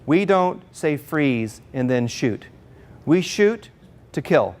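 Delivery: slow imitation of an agent, with weighty pauses; slow, deliberate warning. Secret Service guy briefing police on rules, slow and deliberate. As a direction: space out each phrase for gravity.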